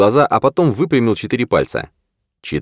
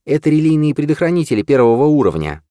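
lightly raised woman's voice; female character voice; 8 semitones higher than usual. A narrator's reading. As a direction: voice her a little higher. Washburn's female voice, high.

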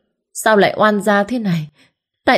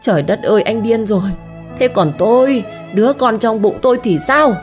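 growling fury; 5 semitones higher than usual. Acted. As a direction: snarl at him in rage. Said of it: "gầm gừ". (Diệu tức điên gầm gừ với chồng)

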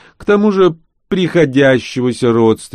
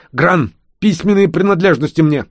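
commanding baron; 9 semitones higher, 5 dB louder than usual. A narrator's reading. Baron orders servant.

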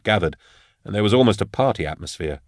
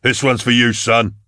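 slightly raised toast; crying out; 3 semitones higher than usual. A narrator's reading. Falcon toasting the dead before the crowd, crying out. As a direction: lift the toast a little. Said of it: "he cried".

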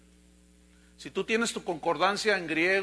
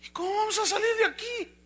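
sudden realization; 12 semitones higher than usual. Acted. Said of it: "de pronto entra la realidad".

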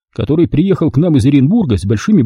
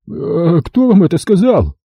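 напряжённо; 4 semitones higher, slower than usual. Acted. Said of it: "напряжённо спросил бандит".

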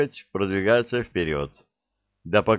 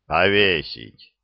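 slow stern order; 2 semitones lower, slower than usual. Acted. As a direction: pass the sentence coldly and slowly. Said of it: "Десятник был суров".

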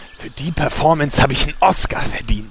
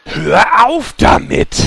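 gequältes Aufbegehren; 8 semitones higher, slower than usual. Acted. Schurke fleht gereizt.

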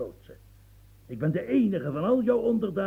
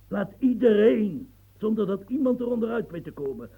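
impassioned demand; 4 semitones higher, 5 dB louder than usual. Acted. Impassioned plea to the king.

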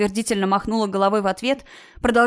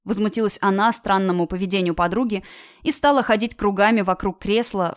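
usual speaking voice

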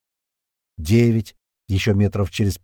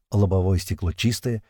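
plain reading voice

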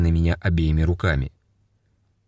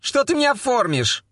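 much higher, furious female voice; angry woman. A narrator's reading. Girl attacks the captain, furious. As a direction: lash out at him. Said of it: "набросилась на него девица".

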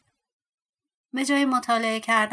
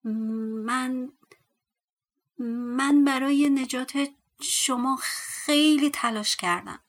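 stammering; 3 semitones higher, 4 dB louder, slower than usual. Acted. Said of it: "با من و من گفت".

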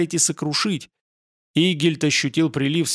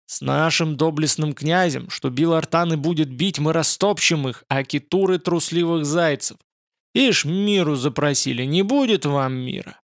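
ordinary delivery

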